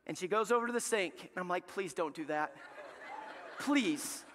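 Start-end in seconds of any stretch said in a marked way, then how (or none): 1.7-4.2 retold pleading. Dad begging at the sink.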